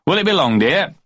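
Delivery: high, lightly voiced husband; Daddy asking. A narrator's reading. Daddy leaning on doorpost asking Mummy, lightly voiced. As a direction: ask idly from the doorpost.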